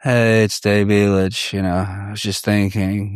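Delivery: mock a half-asleep guru musing aloud; sleepy Dave Elitch. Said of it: "and the sleepy".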